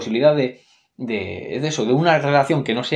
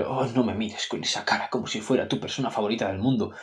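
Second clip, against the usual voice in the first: mocking Bella's reply; 2 semitones lower, 3 dB quieter than usual. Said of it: "es respuesta tras respuesta de decir".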